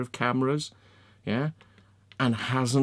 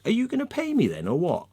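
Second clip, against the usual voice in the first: angry demand; 5 semitones higher than usual. Retold or imitated. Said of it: "I'm like".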